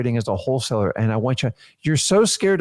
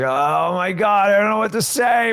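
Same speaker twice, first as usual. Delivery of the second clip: high, slow, frantic newbie panic; hammed-up rookie calling for help in high, drawn-out panic; over-the-top panicked rookie, higher and slow, the last words shouted; mock panic; 7 semitones higher, slower than usual. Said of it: "most of you are like".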